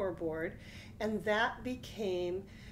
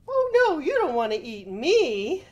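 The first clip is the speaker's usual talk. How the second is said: high, loud startled plea; pleading goat; 7 semitones higher, 10 dB louder than usual. Acted. Goat pleads with the troll not to eat him. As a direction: squeal out a pleading no. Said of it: "said the middle-sized billy goat".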